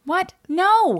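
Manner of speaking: high, loud outburst of disbelief; appalled disbelief. Real, not acted. Co-host hearing the victim slept with her, appalled disbelief. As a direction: blurt it out high, aghast.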